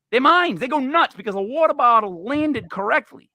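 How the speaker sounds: mock excitement over a water bottle; mock freak-out. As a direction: ham up the kids' overreaction. Mocking kids losing their minds.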